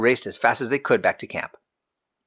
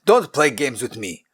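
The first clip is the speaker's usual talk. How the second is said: snapped; 3 semitones higher than usual. Acted. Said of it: "the king snapped".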